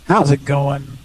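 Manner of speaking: sing-song robot. Pretend. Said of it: "maybe one-fourth robot".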